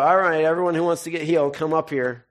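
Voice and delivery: hammed-up public call-up; mock healing-service announcer. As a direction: summon everyone up like a showy host. Mocking a staged healing call-up.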